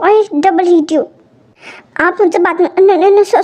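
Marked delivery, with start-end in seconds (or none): 0.0-1.0 slow sulky stress. Acted. Wife sulks at husband.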